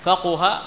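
فقه said with the qaf voiced in the first way; first of three vowelings. Shown as a demonstration. Teacher lists the three readings of فقه, first one. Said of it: "بضم الكاف وكسرها وفتحها".

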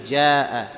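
"جاء" with a clear j; proper jim. Shown as a demonstration. Teacher models correct jim, j in "جاء". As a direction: open "جاء" on j, not g or y. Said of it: "أن ننطقه جيما".

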